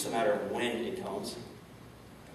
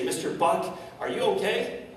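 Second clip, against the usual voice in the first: worried nurse; 6 semitones higher than usual. Retold or imitated. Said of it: "and they say".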